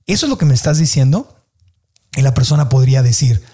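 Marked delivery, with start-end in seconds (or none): 0.1-1.4 gently asked, no condescension; genuine curiosity. Shown as a demonstration. Listener verifying what was meant, genuinely curious. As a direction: check with loving, open curiosity. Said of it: "con amor, con curiosidad genuina".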